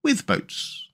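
high, unruffled musing; softening, untroubled character voice; composed. A narrator's reading. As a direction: carry on composedly. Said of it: "the rat went on composedly".

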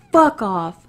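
loud dismissive curse; retold angry curse. Driver telling the woman to go away, loud and dismissive. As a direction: shove her off with it. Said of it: "I just got yelled at".

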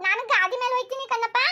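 put-on high, eager girlish voice; excited child daughter. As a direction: bubble over about sweets like a little girl. Daughter lists fair treats excitedly.

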